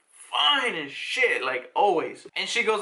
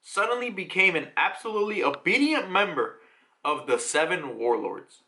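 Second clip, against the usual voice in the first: measured storybook narrator read. Acted. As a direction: announce it as a manga narrator. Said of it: "Now we get the narrator".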